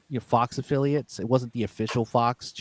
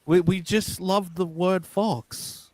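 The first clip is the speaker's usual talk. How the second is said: mock British accent; 4 semitones higher, slower than usual. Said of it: "Like, they say".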